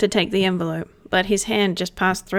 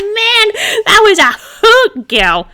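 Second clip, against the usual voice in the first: much higher and louder, gleeful; cackling glee; 13 semitones higher, 8 dB louder, slower than usual. Acted. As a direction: crow it out delighted. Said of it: "he cackled".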